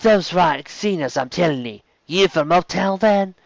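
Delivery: put-on female Cockney accent. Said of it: "a female Cockney accent".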